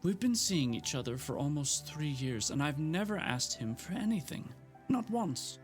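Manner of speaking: high, strained near-tears rant; fighting back tears while accusing; unsteady tearful voice. Acted. Gemma to Frank, near tears and indignant. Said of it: "her voice sounded unsteady".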